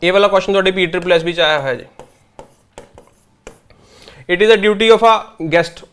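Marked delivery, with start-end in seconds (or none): 4.3-5.9 slow read-out. Shown as a demonstration. Reading the exam question aloud.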